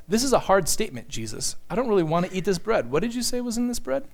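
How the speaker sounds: quick, hesitant objection in a disciple's voice; mock-squeamish, rapid questioning; mock protest. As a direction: play a reluctant dinner guest, hurriedly querying. Voicing disciples' imagined objection.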